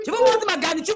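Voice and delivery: mocking loud repeat. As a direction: throw the words back loudly. Répète plus fort en se moquant. (répétée plus fort et plus aiguë, moqueuse)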